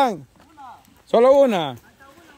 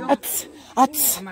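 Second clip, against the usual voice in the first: short, sharp mimicked noise; softer, clipped burst imitating someone; imitating Melissa; 6 dB quieter than usual. Showing how Melissa does it, imitated noise. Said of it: "Así le da la Melissa".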